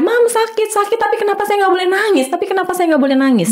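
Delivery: imitating a child crying out in pain; retold crying plea. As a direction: replay the boy's tearful cry to his mother. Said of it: "dia nangis teriak-teriak".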